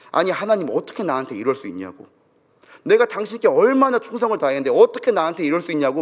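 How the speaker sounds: mildly aggrieved retold protest; resentful protest. Pastor demands answers from God after losing his son, mildly resentful. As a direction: reproach God, pressing the question with restraint. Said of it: "막 원망하고 따지기 시작합니다".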